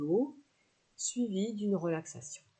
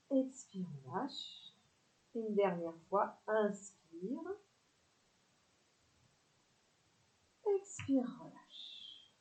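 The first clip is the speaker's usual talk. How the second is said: calm instructor pacing each breath; unhurried cues with pauses to breathe; guided yoga breathing; 3 semitones higher than usual. Acted. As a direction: lead the stretch, drawing out each release. Leads breathing and stretching sequence.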